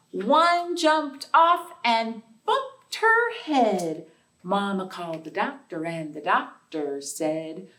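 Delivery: sing-song nursery rhyme chant; counting rhyme. Acted. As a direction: bounce through it like a playground rhyme. Rhyme verse.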